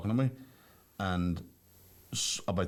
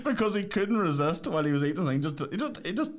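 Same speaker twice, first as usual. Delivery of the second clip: laughing; 7 semitones higher than usual. Real, not acted. Laughing through story.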